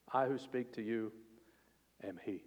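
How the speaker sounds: soft, tender words of Jesus; tender revelation. Retold or imitated. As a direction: let it fall soft and intimate. Jesus revealing himself, voiced softly.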